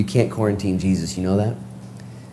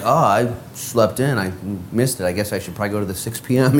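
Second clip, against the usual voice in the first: sheepish excuse; 2 semitones lower, 3 dB quieter than usual. Acted. Voices friend who skipped church.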